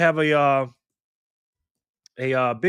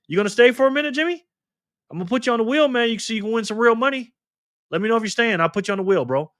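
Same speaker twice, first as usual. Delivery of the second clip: eager invitation; 9 semitones higher, faster than usual. Real, not acted. Eagerly inviting Jimmy to stay.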